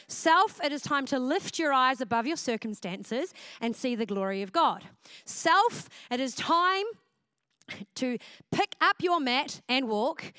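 preacher rallying her own soul; pep talk to self. Shown as a demonstration. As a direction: coach yourself out of pity city. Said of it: "give ourselves a pep talk".

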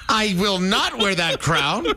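laughing through the words. Real, not acted. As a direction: say it while cracking up, slowly. Laughing refusal of fart crown.

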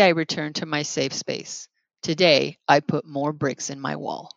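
solemn read-aloud. Acted. Reads a post aloud.

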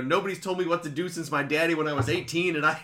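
put-on a thin, half-hearted southern accent from a Wisconsin speaker; bad southern accent. Quoting a Texas congressman in a weak southern accent. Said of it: "Is that your southern accent?".

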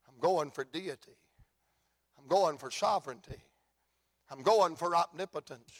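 low, quiet and resolute reply; a father answering steady and low; Jairus answering low. Acted. Father answers the curious crowd, low and resolute. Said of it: "And I can hear him say".

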